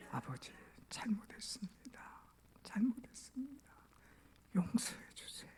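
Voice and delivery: hushed, whispered apology; acted contrite plea. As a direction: beg forgiveness almost without voice. Son kneels, begging father's forgiveness.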